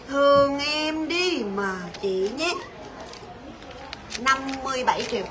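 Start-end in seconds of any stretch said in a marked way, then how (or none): 0.1-2.5 slow drawn-out coaxing plea; pleading. Real, not acted. Seller begging Quỳnh Hạnh to take the deal, pleading slowly. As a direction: beg her sweetly, stretching it out. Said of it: "tội nghiệp Vinh năn nỉ luôn á".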